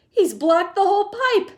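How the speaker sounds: high, loud exclamation; excited alarm. A narrator's reading. Grandfather seeing the pipe blocked, excited. Grandfather sees boy stuck.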